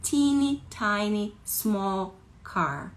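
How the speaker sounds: high, drawn-out squeak for smallness; slow, high, itty-bitty voice; thinned tiny voice. Shown as a demonstration. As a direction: shrink the voice to sound teeny tiny. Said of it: "a minha voz se afinou".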